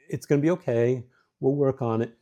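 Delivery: gentle, steady reassurance; calm her down, promise you'll fix it; reassuring. Shown as a demonstration. Husband reassuring his upset wife, gently and calmly. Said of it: "see the difference?".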